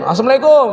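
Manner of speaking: "Assalamualaikum" mumbled to "asemlaiko", vowels thick; heavy Indonesian salaam. Retold or imitated. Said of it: "Wah, tebel semua tuh".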